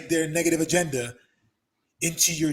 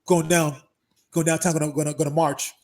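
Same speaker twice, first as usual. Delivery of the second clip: louder, pumped-up bro voice imitating his friend; mock hyped buddy; 6 dB louder than usual. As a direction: play the eager protester bro. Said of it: "And he's like".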